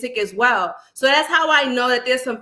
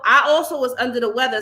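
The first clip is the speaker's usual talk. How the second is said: congested, a little nasal; stuffy nose; faster than usual. Real, not acted. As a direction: speak through a blocked nose. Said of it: "I sound a little stuffy, a little nasal".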